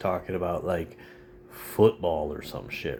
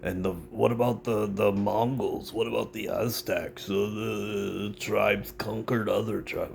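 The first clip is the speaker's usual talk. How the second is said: mock conservative; 3 semitones higher than usual. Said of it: "might rant and rave about".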